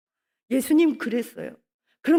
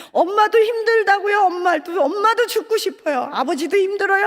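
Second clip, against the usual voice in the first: raised emotional preaching; 5 semitones higher, 3 dB louder than usual. Real, not acted. Preacher pleading parents' hardship.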